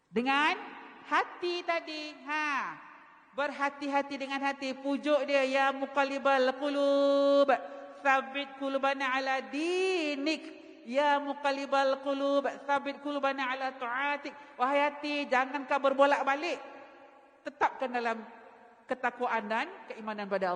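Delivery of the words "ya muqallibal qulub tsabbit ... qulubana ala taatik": slow, measured Arabic supplication; slow devout recitation; slow prayer recitation. Acted.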